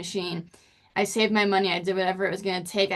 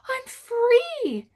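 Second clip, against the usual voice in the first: high, elated cry of release; bursting with freedom; joyful relief. Retold or imitated. Calling mom after remission.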